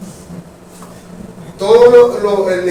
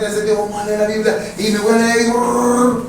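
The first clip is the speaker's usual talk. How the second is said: mock rushed reading. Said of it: "hasta la velocidad es irreverente".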